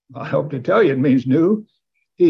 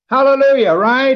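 joyful shout; 9 semitones higher, 5 dB louder than usual. Real, not acted. Preacher exults to congregation.

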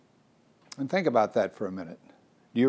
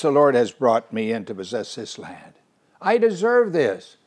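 self-righteous; 3 dB louder than usual. Pretend.

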